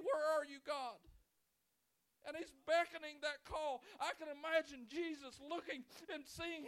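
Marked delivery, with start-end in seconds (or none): 0.0-1.0 loud, high, breaking plea for help; a man under a fig tree crying out for God's help. Retold or imitated. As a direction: cry out desperately to God for help. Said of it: "looking up to heaven and saying".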